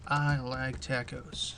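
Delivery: slow, soft robotic computer voice; old speech synthesizer. Pretend. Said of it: "let's make the computer say something different".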